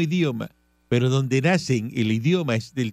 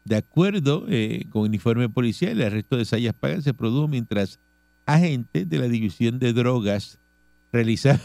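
measured radio news reading; 3 semitones lower than usual. Real, not acted. Host reading charges to the audience, news read. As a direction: read out the police report evenly.

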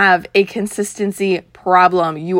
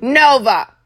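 calling the dog; 4 semitones higher, 4 dB louder than usual. Real, not acted. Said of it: "Sorry, dog mom life".

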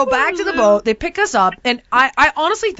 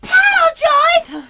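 slow, high-pitched frantic yell; retold screaming; 4 dB louder, much slower than usual. Woman screaming at Grandma to paddle in the trapped kayak, screaming. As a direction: holler orders at a useless paddler. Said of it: "I'm screaming at Grandma".

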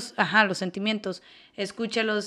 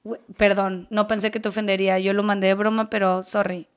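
sincere apology; 3 dB louder than usual. Acted. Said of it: "reactuar como debe de ser".

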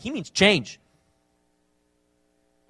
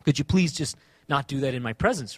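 gentle request; 5 semitones lower than usual. Acted. Friend asking a friend not to cuss, gentle request. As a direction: ask it low and without accusation. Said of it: "You're just simply asking".

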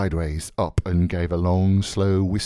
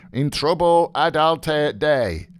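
high, slow mock-liturgical chant; intoned; 7 semitones higher, 4 dB louder, slower than usual. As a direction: intone it like a priest at the altar. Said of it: "held the bowl aloft and intoned".

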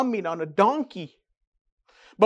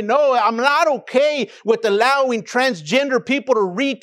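bold protest; 2 semitones higher than usual. Pretend. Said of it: "we need to stand up and say".

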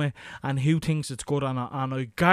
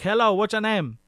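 dubbed film voice; 6 semitones higher, 4 dB louder than usual. Retold or imitated. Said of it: "they're like".

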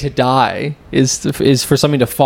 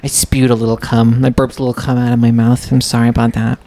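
lightly voiced apologetic little fellow; quick, meek mock apology; polite little man. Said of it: "Saying it with that voice".

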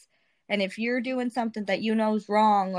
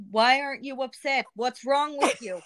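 mock angry retort; 4 semitones higher than usual. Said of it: "she got mad at me".

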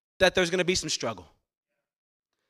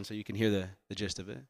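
much softer, low murmur; going quiet; 11 semitones lower, 10 dB quieter than usual. Real, not acted. Pastor hushing so the room hears the noise, very soft. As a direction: drop right down so the noise shows. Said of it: "I'll be quiet for a half second".

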